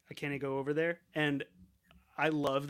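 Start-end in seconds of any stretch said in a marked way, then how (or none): 0.1-1.0 "can't" said as "cannae", quick and casual; Scottish "cannae". Shown as a demonstration. Podcaster giving an example of Scottish dialect, "can't" said "cannae". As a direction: swap "can't" for a Scottish "CAN-nay". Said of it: "in the Scottish dialect".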